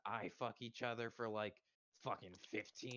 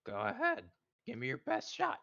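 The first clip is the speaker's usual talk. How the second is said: louder, daring the giant to hit him; loud defiant challenge; 2 semitones higher, 8 dB louder than usual. Acted. Character daring the giant to show him pain, loudly defiant. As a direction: throw down the gauntlet loudly.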